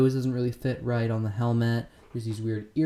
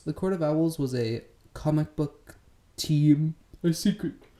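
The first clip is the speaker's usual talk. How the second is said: talking through a yawn, much higher pitch; 4 semitones higher than usual. Explaining the court of owls to viewers, then yawning mid-sentence. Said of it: "Sorry for yawning".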